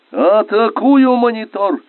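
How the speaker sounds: high, drawn-out attack cry; commander's ringing battle shout. A narrator's reading. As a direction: yell the attack out loud. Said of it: "крикнул лейтенант".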